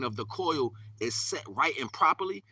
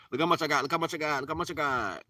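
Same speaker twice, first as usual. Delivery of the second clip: show-off; 3 semitones higher than usual. Acted. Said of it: "That's what the world do".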